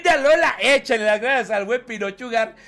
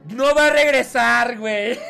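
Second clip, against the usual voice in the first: laughing. Real, not acted. Laughing at a chat claim.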